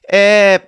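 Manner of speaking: F said as a loud, high "ep"; wrong short F. Shown as a demonstration. Teacher mocking a wrong lesson, loud "ep" for F. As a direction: pop F shut with a P. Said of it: "Pag sinabing F ng teacher".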